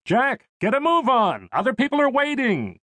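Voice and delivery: high-pitched call to hurry along; calling out impatiently. Acted. Parent at the boarding queue, urgent high call to Jack.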